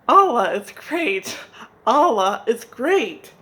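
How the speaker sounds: loud, drawn-out mock prayer call. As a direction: fake the dawn call from hiding. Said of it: "called Spider from behind a bush".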